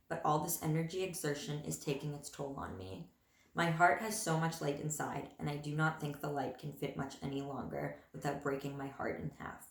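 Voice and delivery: measured, understated poem recital; poetry reading. Acted. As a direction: read your own poem aloud, evenly and a little subdued. Reads own poem aloud.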